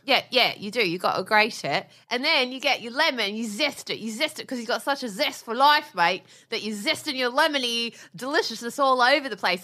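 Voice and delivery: lightly voiced matey British chef; Jamie Oliver impression. Wife describes zesting lemon, light British chef impression. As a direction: gush as a mock British TV cook. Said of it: "back to my Jamie Oliver minute".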